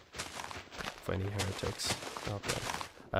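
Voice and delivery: whispered aside. Acted. Mock aside to chat.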